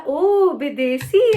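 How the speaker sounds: put-on a boyfriend teasing a foreign-looking girl, drawn-out call; imitating his call. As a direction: call out "ओ विदेशी" long and teasing. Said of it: "ऐसे करके ना".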